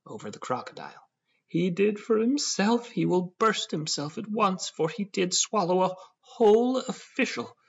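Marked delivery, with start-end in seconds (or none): 1.5-7.5 high, loud, slow wail; bellowing lament. A narrator's reading. Proprietor crying over his crocodile, bellowing in distress. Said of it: "They were both bellowing like calves".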